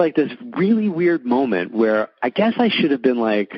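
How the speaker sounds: ordinary talk, nothing marked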